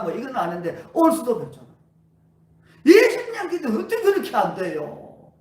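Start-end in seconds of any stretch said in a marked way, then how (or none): 2.9-5.3 choked up. Real, not acted. Pastor recalling twenty years of failed prayer, near tears. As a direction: voice breaking with tears on the question.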